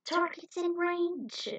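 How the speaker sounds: high, slow machine call-out; robot pilot. Acted. Attack drone announces its targets, robotic.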